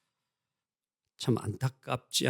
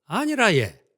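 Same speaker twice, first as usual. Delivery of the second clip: Gyeongsang dialect; 6 semitones higher, 5 dB louder than usual. Retold or imitated. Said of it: "경상도".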